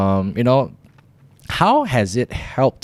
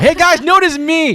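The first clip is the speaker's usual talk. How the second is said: high-pitched, louder mock call-out; mock attention-seeking; 5 dB louder than usual. Host jokingly begging viewers for attention, mock attention-seeking. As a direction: pipe up high like an eager fan wanting notice.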